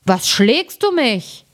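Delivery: a woken giant grumbling at his friend; sleepy giant. A narrator's reading. Giant woken by stones complains to his companion, slow and drowsy. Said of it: "stieß seinen Gefährten an und sprach".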